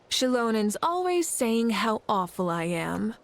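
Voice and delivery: whispered mock complaint; a sly whispered tattle; mock aside. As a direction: whisper it as a playful jab. Mock complaint about companion.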